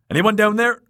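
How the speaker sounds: loud high call. A narrator's reading. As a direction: shout down into the darkness. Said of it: "he called again".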